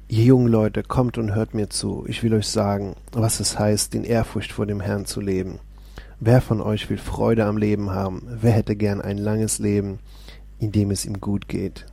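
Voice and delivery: steady, proclaiming Bible reading; lifted, declaiming psalm voice; solemn scripture reading. Acted. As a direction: read the psalm as if preaching it. Reads Psalm aloud.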